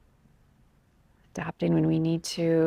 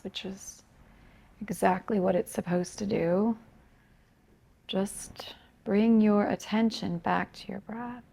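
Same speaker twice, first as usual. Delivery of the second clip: softer, unhurried meditation guidance with long pauses; guided meditation; 5 dB quieter than usual. Acted. Yoga teacher guiding students to become aware of breath, calm meditation voice. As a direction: gently lead them into noticing the breath, leaving space between phrases.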